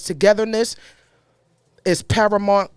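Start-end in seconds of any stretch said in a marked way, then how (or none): 1.9-2.7 Brooklyn accent. Real, not acted. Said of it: "it's my accent".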